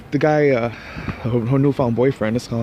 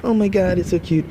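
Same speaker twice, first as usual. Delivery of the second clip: mock gushing; 7 semitones higher than usual. Mocking couple's cute talk.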